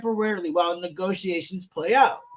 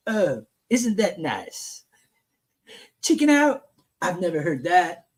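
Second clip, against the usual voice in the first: Donald Trump; 4 semitones lower than usual. Acted. Host rereads the president's reply, lightly imitating him. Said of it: "I'm gonna do Trump's voice".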